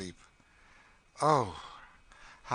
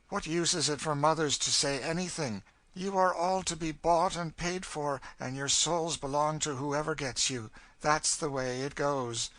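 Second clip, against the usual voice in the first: higher, louder, scornful character voice; bitter, forceful woman; 7 semitones higher, 5 dB louder than usual. Acted. Cassie telling the girl to drink, bitter scorn. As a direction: drive it home with bitter force.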